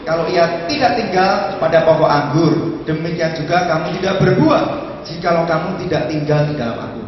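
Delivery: loud, elevated Bible reading; scripture proclamation. Acted. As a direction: declaim the verse to the congregation. Reads Bible verse aloud.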